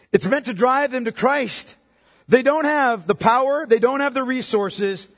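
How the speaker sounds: slow, weighty, each word pressed; slow emphatic preaching. Real, not acted. Preacher pressing the point to the congregation, slow and weighty. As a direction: drive the point home slowly. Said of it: "slow emphatic preaching".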